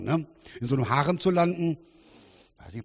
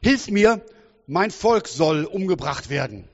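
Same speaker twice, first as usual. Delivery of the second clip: Esther's plea; 4 dB louder, slower than usual. Retold or imitated. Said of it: "und sagt".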